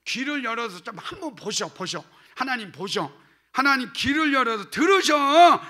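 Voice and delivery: impatient, insistent prayer, ending loud; hurried pleading. Shown as a demonstration. Pastor in a hurry presses God to listen, insistent. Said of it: "제가 급해가지고".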